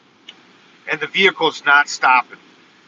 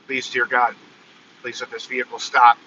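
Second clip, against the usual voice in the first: lower, softer desperate plea; quiet prayer; 5 semitones lower, 3 dB quieter than usual. Retold or imitated. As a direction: pray under your breath for the bus to stop. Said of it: "I say it out loud".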